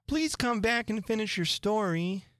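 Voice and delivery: high, pleading call; calling after. A narrator's reading. Alice calls after the departing Mouse, high and pleading. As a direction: call someone back. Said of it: "Alice called after it".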